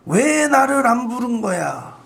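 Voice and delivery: slow, sulky imitated complaint; mock angry old pastor. Preacher mimicking an offended retired pastor, mock sulky. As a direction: play the offended elder pastor, mildly. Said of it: "원로 목사님이 화를 내고 가셨어".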